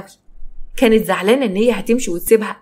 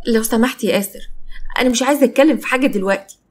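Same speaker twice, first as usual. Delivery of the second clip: mildly irritated, higher on the refusal; curt refusal; 3 semitones higher than usual. Acted. Sister refusing to discuss it with Asser, mildly curt. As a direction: shut him out with a touch of impatience. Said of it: "أنت بتتكلمي كده ليه".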